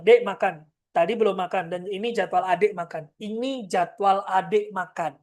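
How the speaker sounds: matter-of-fact, level instruction; calm computer-like command; logical and firm. Shown as a demonstration. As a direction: state it like a schedule, no emotion. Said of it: "bahasa kayak komputer".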